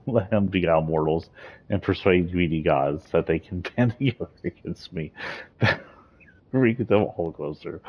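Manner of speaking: giggling through lines; laughing while reading. Real, not acted. Laughing over quoted lines.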